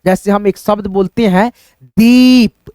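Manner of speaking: दीप with its ई stretched long; drawn-out ee. Shown as a demonstration. Teacher stretching the vowel in दीप for students. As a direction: hold the ई in दीप slowly. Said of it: "उच्चारण ... होगा खींचता हुआ".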